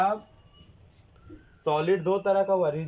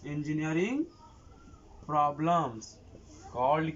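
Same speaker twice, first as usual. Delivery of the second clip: dictation; 3 dB quieter, much slower than usual. Real, not acted. Dictating notes phrase by phrase.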